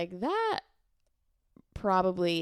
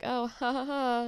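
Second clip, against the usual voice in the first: fake laugh; 4 semitones higher than usual. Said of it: "plays it off as".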